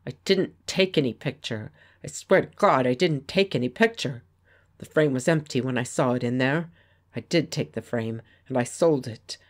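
desperate denial through locked teeth. Acted. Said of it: "he spoke through his locked teeth".

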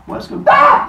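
shoots up into a loud, high yelp; startled. Acted. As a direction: break off in comic shock. Goddess turns and sees horror.

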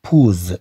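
بوز with final S voiced into Z; wrong Z reading. Shown as a demonstration. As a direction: end بوز on a buzzing Z. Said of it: "إذن حتى لا نقرأها".

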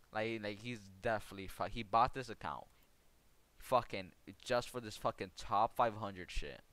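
exasperated gamer rant; heated rant. Real, not acted. Ranting about account buyer.

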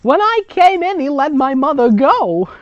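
high, loud mock Jewish mother. Grandmother recounting her past, hammed-up Jewish mother. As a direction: play it like a fussing Jewish mother. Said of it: "Jewish mother".

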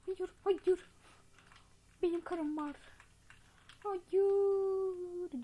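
high, loud drawn-out no; hammed-up cry of refusal; mock protest. Player refusing the old man's advance, loud high mock wail.

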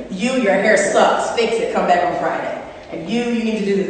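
lightly imitated raspy casting woman; brisk dismissal, a hint of smoker's rasp; raspy casting lady. Casting woman judging the line-up, lightly imitated raspy voice. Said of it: "white woman with a raspy voice".

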